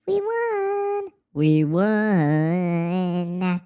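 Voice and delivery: high mocking villain voice; mocking corporations. Mocking corporations gloating over taxpayers, in a high taunting voice. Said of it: "they're going to say".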